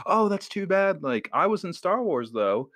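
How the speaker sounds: hint of a kindly star offering help; imitating Warwick Davis. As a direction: Warwick Davis consoling a mom, lightly voiced. Davis voiced.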